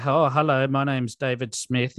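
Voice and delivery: light imitation of an Indian accent; a hint of an Indian call-centre accent. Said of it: "in an Indian accent".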